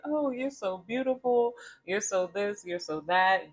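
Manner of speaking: shower her with compliments; gushing compliments. Retold or imitated.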